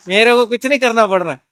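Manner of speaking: chuckling through the words; amused, half-laughing disbelief. Real, not acted. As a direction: laugh as you say you have nothing to do. Delighted at his easy job.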